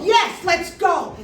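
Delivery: loud, drawn-out excited yes; eager agreement. Retold or imitated. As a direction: stretch it out, high and delighted.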